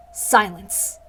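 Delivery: cold, curt command; commanding goddess. Acted. The goddess silences Rika, cold and curt. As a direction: silence the mortal with contempt. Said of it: "I need to think of a voice for her".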